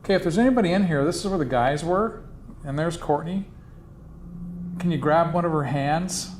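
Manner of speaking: loud, fast call into the room. Real, not acted. Calling out to spirits in a room.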